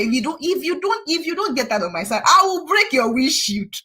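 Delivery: retold angry warning, slowing at the end; angry threat. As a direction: threaten him, dragging the last words. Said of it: "I said".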